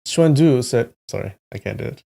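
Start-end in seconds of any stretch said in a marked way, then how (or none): 0.1-0.9 higher, tentative English-accented narration; attempted English accent. Shown as a demonstration. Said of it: "I can try an English accent".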